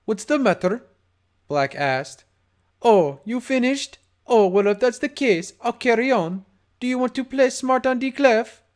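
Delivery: sarcastic. Acted. Gangster mocking terrified victim.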